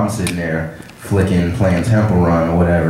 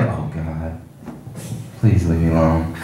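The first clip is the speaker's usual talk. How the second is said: muttered dread; 3 semitones lower, 6 dB quieter than usual. Retold or imitated. Dreading the lady's request for number.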